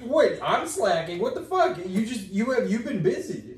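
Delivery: high-pitched outraged squeak; indignant what the fuck. Real, not acted. Friend just called him the slacker, squeaks in outrage. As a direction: pitch way up in disbelief.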